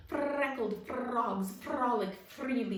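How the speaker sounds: slow, loud, over-enunciated recital; actor's diction drill. Acted. Frog actor practising clear speech, slow and loud. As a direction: practise it like a stage tongue twister. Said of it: "he recited over and over".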